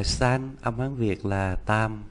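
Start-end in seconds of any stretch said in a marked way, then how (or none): 0.0-0.5 "san" pronounced like Chinese sān; "san" read the Mandarin way; Mandarin three. Shown as a demonstration. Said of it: "Ba đọc là".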